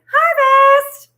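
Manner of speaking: high, loud proclaiming cry; exclaimed harvest. Real, not acted. Reader proclaiming harvest time to the viewer, high and loud. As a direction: call it out like a herald.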